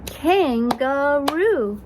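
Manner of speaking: "Kangaroo" slowly in three separate beats; KAN, GA, ROO, stretched apart; clapped-out syllables. Shown as a demonstration. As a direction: say "Kangaroo" one drawn-out syllable per clap. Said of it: "Let's clap that out".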